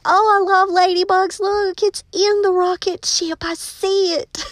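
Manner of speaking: imitating a girl who spots the ladybug; excited student. Ninth grade girl spotting the ladybug, high delighted squeal. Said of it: "she screamed".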